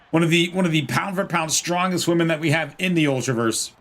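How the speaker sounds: wrestling commentator; play-by-play commentary. Pretend. Streamer calls the match for viewers, wrestling commentary. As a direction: call the action like a match commentator.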